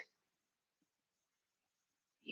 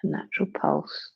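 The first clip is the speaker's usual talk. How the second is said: whispering; 6 dB quieter, faster than usual. Acted. Soft meditation cue.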